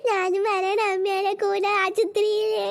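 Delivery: put-on slow, drawn-out childish whine; whiny child. Little girl pleading with her mother to take her along, in a slow whine. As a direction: stretch every word like a begging toddler.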